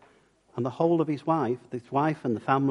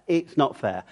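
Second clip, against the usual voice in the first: It's not fair said as a light moan; mild whinge. Pretend. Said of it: "whinged and moaned and complained".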